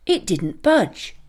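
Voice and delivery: plain reading voice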